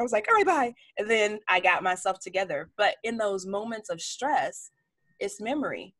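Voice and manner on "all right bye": much higher, timid squeak; meek little reply. Retold or imitated. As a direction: shrink away like a scolded kid. Meek reply to scolding mentor.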